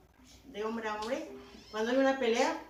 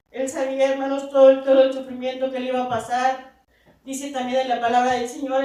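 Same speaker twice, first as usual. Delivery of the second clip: louder, raised preaching voice; impassioned preaching; 3 semitones higher, 9 dB louder than usual. Real, not acted. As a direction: preach Christ's suffering with rising force.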